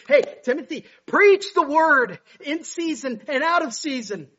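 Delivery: high, loud urgent charge; urgent preacher's command, pitched high; urgent exhortation. Acted. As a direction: urge a young pastor at full voice. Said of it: "urgently, he's telling young Timothy".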